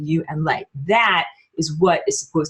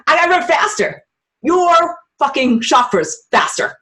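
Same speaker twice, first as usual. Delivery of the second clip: urgent; 7 semitones higher than usual. Retold or imitated. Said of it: "You're like".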